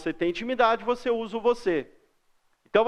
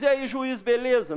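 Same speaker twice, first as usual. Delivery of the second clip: breezy, higher street greeting; casual slangy greeting; 4 semitones higher than usual. Shown as a demonstration. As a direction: greet the judge like a buddy. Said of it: "Não". (cumprimento informal e descontraído)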